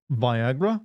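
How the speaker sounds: "Viagra" said vy-AG-ra, rising; hard-R question. Shown as a demonstration. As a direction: query "Viagra" with long i and firm R. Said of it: "you can't say it with a hard R".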